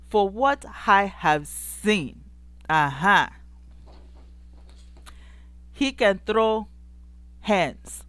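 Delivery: slow, lightly African-accented delivery. Shown as a demonstration. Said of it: "let me get my African accent together".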